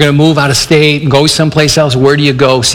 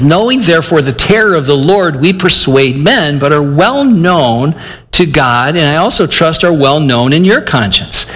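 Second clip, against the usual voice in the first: scripture reading. Acted. Reads scripture verse aloud.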